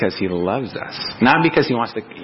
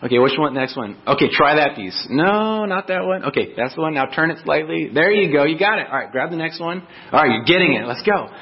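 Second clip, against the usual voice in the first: encouraging coach dad; 5 semitones higher than usual. Retold or imitated. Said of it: "So I get on the floor with him".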